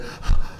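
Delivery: imitated breathless gasp. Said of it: "she's, like, breathing heavy".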